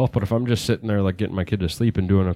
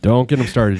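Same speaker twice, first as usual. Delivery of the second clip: laughing. Real, not acted. Laughing at cohost's rant.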